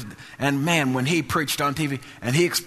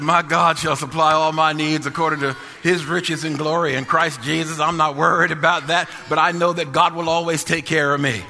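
retold bold declaration; 2 semitones higher, 3 dB louder than usual. Retold faith declaration, rising to shout.

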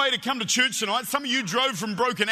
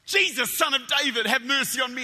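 retold yell. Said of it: "I yelled out".

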